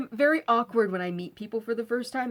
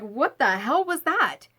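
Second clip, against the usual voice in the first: annoyed demand; 5 semitones higher, 6 dB louder, slower than usual. Retold or imitated. Friend confronting her outside.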